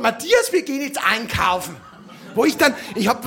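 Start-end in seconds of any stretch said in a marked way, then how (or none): 0.0-1.8 a touch of a mother's shout; mother calling. Retold or imitated. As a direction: call him away from his play. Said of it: "meine Mutter ... gesagt hat".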